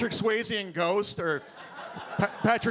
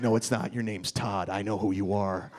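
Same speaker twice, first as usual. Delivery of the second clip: bouncer voice; 11 semitones lower than usual. Retold or imitated. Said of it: "And he's like".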